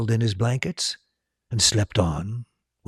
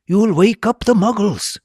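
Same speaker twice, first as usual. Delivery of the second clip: stern hiss; 13 semitones higher, 8 dB louder than usual. A narrator's reading. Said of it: "hissed Professor McGonagall".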